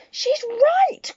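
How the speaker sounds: high, loud excited cry. Acted. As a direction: cry out in agreement. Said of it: "cried another voice".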